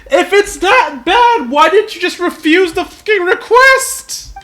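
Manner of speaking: high, loud, slowed incredulity; incredulous. Real, not acted. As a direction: demand it in disbelief.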